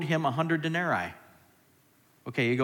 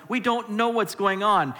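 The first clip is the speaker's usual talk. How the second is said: louder, higher "we don't know what's going on"; rising emphasis; 7 semitones higher, 6 dB louder than usual. Shown as a demonstration. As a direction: preach it out, hitting "know". Same line repeated, escalating.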